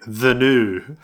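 "the new" said as a stereotyped Scottish "the noo"; mock Scottish "the noo". Mocking English attempts at Scottish, "the new" said as "the noo". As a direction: quote "the new" as a clichéd Scots "the noo". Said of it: "heard a Scottish person say".

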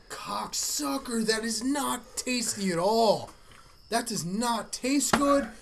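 pained, slowed by the chili heat; mouth burning from spicy food. Real, not acted. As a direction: talk through a burning mouth. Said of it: "It is just for how hot it is".

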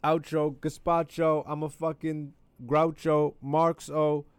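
loud, high goofy rhyming; silly rhyme. Acted. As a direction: ham up a nonsense rhyme.

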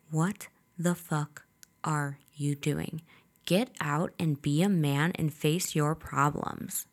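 angry whisper, slow; whispered anger. Retold or imitated. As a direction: hiss it through the window. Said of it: "I'm like".

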